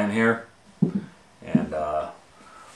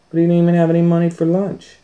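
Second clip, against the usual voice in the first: dramatic emphasis; 10 semitones higher, 10 dB louder, faster than usual. A narrator's reading.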